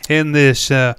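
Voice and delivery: emphatic, hammed-up American accent; put-on American accent. Host practising accents after listener comments, put-on American accent. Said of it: "we're practicing accents here".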